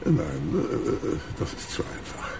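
langsam, leiser, genießerisch; genüsslicher Schurke. Acted. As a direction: koste jede Mordidee aus. Krug plant langsam Mord. (langsam schwelgender Bösewicht)

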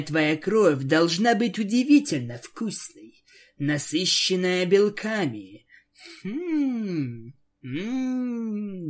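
sizing up her meal; predatory vampire. Acted. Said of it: "посмеялась Аланис".

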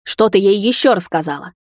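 громче, угрожающе; рычать на неё; рычание. A narrator's reading. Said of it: "рычала она". (мать рычит, громче)

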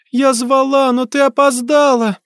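put-on high reproachful child voice; child ghost. A narrator's reading. Ghost girl blaming her mother. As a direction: blame her like an abandoned little girl.

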